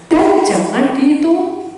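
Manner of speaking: slow, high, loud "jangan"; loud slow warning; emphatic warning. Real, not acted. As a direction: drag out "Dan jangan dihitung" loudly.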